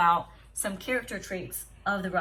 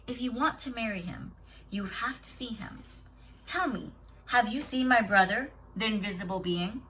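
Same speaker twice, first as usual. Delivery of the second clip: very gently. Acted. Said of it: "said the sister very gently now".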